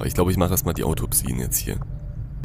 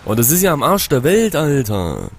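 exasperated surprise; 8 semitones higher, 7 dB louder than usual. Real, not acted. Mission site very far away.

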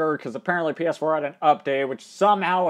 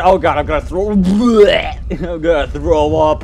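laughing; 6 dB louder than usual. Real, not acted. Laughing on the coaster ride.

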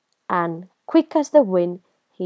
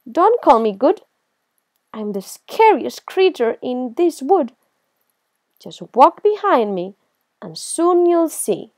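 indignant boast; 5 semitones higher, 5 dB louder than usual. Acted. Mouse boasts to the Gruffalo.

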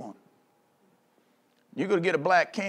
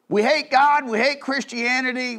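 a hammed-up rebel cry; mock defiant shout; 4 semitones higher than usual. Mocking voice of the rebels.

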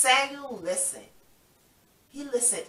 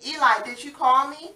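eager Samuel; 6 semitones higher, 5 dB louder than usual. Acted.

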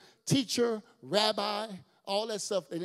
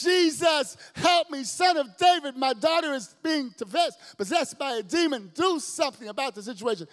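high, loud screaming plea; mother screaming at Jesus for help; shouting plea; 9 semitones higher, 10 dB louder than usual. Acted. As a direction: scream for help for your daughter. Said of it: "blood-curdling screams".

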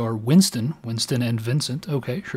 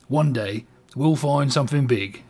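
"one day" repeated gently, less push on "one"; soft British accent. Acted. Vincent softly repeating the promise, British accent. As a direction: quieter echo in a mild British accent. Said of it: "the accent is just gonna change".

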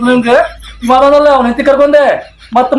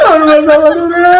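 crying; 4 semitones higher than usual. Acted. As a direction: bawl theatrically like someone betrayed. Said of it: "ನೀವ್ ಯಾಕ್ ಅಳಾಕತ್ತೀರಿ".

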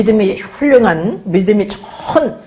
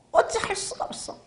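whisper; 10 semitones higher, 13 dB quieter than usual. Real, not acted. Breathy rhetorical answer.

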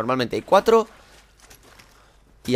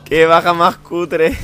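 high, slow laughing jeer; laughing mockery; 6 semitones higher, 9 dB louder, much slower than usual. Real, not acted. Gamer laughing slowly at his own lame kill.

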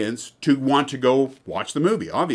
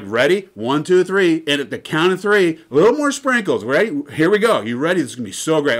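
teasing countdown; 4 semitones higher, 4 dB louder than usual. Retold or imitated. Host teasing countdown again.

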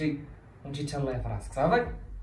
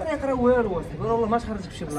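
heated warning; 7 semitones higher, 3 dB louder than usual. Acted.

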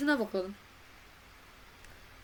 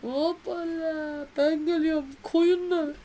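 excited exclamation; 5 semitones higher, 4 dB louder, slower than usual. Real, not acted. Excited spotting sheep.

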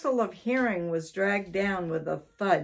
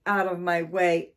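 louder, furious repeat; angry shout; 4 dB louder than usual. Acted. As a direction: shout it again, angrier. Angry man chasing cats out.

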